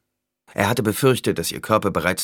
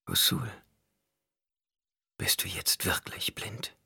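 slow, fearful whisper; 8 dB quieter than usual. A narrator's reading. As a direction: breathe the question, unvoiced. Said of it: "flüsterte sie wieder".

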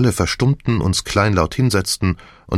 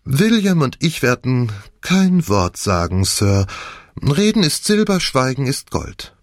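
deliberate, proverb drawn out at the end; a hint of a discreet servant; lightly voiced servant; 6 semitones higher than usual. Ellen promises silence, lightly voiced servant.

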